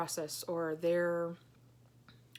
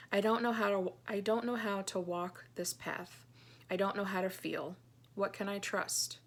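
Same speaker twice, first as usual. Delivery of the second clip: earnest, measured reading of a private journal; heartfelt journal reading. Acted. Reads her journal entry aloud.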